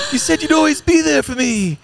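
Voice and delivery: very high, loud wailing lion cub; hammed-up, piercing plea to a father; Simba. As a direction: cry out in a squeaky, wounded child voice. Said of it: "No, it's, uh, Simba".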